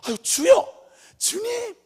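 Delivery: high, loud cries to God; calling on the Lord. Acted. Believer turning to the Lord in any moment, high calling out. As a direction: call out as by habit, voice thrown upward. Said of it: "습관적으로 주님 부르는 거야".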